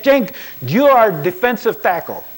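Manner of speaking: put-on loud, high Latino accent, barking at a player; a Latino coach commanding his lineman up close. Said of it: "he has this distinctive accent".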